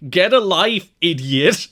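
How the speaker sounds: loud, high retold shout. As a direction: imitate an angry parting yell. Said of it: "just ends the segment just shouting".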